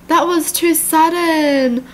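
slow, high complaint; upset protest. Real, not acted. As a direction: stretch it out in dismay. Upset at the abrupt death.

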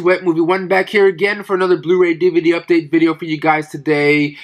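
stuffy nose, nasal tone. Real, not acted. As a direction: talk through a blocked nose. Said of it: "forgive me and my nasally sounding voice right now".

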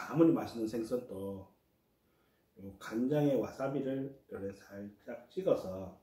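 talking while chewing; words muffled by food; mouth full. Real, not acted. Seen 2: face clear; cheeks look rounded after a bite, holding food.

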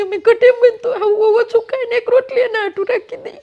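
breaking down as she says it; crying. Real, not acted. Mother tells how she saves bread for her daughter, crying. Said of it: "રોવાય નહીં".

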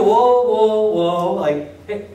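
calming someone on the phone; lightly acted whoa calm down; mock placating. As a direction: soothe a screaming caller. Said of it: "you go".

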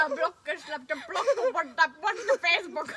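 mock Indian accent. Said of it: "What is this accent?".

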